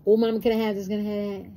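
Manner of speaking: a hint of a child nagging mom in a store; begging child. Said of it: "they talk about".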